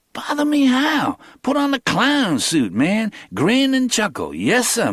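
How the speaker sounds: lightly voiced young hustler; the speaker's own voice.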